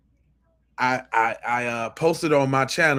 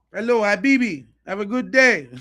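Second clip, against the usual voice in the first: mock shopkeeper greeting; 6 semitones higher, 4 dB louder than usual.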